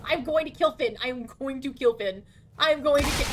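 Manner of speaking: loud, playful angry repeats; mock rage. Streamer rants playful threats at teammate Finn. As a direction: rant in mock fury.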